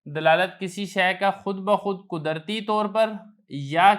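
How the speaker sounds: slow, measured recitation of a definition; reading a set text aloud, slowed down. Shown as a demonstration. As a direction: read the book's words slowly and deliberately. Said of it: "تو عبارت آپ دیکھ لیں".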